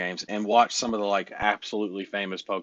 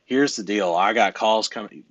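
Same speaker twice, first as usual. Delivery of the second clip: firm, louder "Here's the deal. I got calls coming."; authoritative; 5 dB louder than usual. Shown as a demonstration. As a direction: lay it down with confident authority. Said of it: "say it with a little authority".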